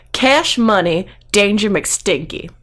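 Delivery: badly faked Southern smooth talker; amateur Texan accent; bad Texas accent. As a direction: coax the guards in a put-on Texan accent. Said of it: "I have a terrible accent".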